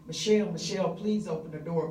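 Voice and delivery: desperate call, partly replayed; retold screaming her name. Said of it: "I'm screaming her name".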